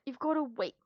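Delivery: whispered "You've gotta wait" with no voice. Real, not acted. Repeating the order to her pet in a whisper. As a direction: hush it to the pet.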